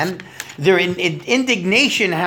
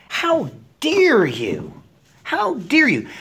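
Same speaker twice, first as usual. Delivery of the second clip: indignant; 6 semitones higher, slower than usual. Acted. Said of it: "so he becomes indignant".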